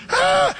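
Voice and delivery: high-pitched panicked "ah"; mock scream. Philistines fleeing after Goliath falls, high scream. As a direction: yelp of fleeing soldiers, up high. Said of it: "the Philistines went".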